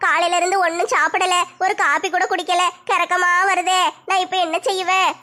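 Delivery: drawn-out hungry moaning complaint; feeble, self-pitying lament of hunger; weak with hunger. Acted. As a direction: whine as if faint from an empty stomach. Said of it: "பசி தாங்க முடியலையே".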